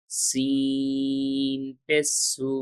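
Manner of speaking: সিন পেশ সু stretched very slowly, every syllable drawn out; slow drawn sin. Shown as a demonstration. Teacher reciting সিন পেশ সু slowly for students to repeat.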